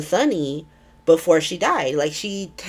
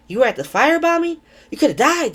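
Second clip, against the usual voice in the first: higher and fast, shocked dad; alarmed surprise; 9 semitones higher, faster than usual. Retold or imitated. Warlord dad hearing his son was at the firebombing, shocked. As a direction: jolt of shock at the news.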